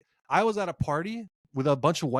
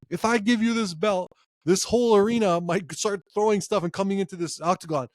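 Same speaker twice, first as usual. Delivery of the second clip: imitating Dana White; 4 semitones higher than usual. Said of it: "you hear Dana White telling him".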